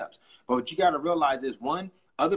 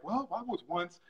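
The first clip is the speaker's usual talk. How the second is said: rags to riches pitch; slower than usual. Retold or imitated. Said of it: "it'll be like".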